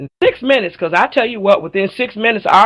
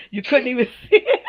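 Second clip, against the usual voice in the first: giggling through the words; bashful laughing protest; 4 semitones higher, 3 dB quieter, faster than usual. Real, not acted. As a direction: laugh it out, flattered. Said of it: "I'm too dark to blush".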